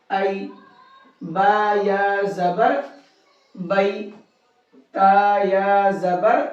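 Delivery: slow, level, drawn-out letter spelling with a rise on زبر; measured Qaida drill, pausing before each blended syllable; slow practice recitation. Shown as a demonstration. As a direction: chant each spelling slowly for pupils to repeat. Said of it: "اب میں پڑھ رہا ہوں".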